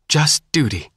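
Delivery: a touch of tears as you insist; sobbing. A narrator's reading.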